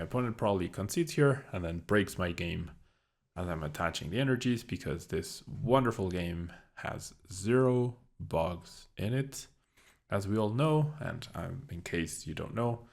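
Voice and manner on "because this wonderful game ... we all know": deliberate, tongue-in-cheek emphasis; sarcastic. Real, not acted. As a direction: draw it out with dry sarcasm. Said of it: "I'm being completely sarcastic".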